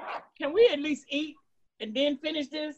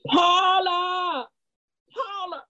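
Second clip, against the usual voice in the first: calling out; slower than usual. Acted. Calls out to vanishing ghost.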